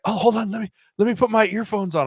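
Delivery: mock-flustered, pitched well up; imitating flustered wife. Hunter quotes his wife asking him to wait, high flustered imitation. Wife stalls before the shot.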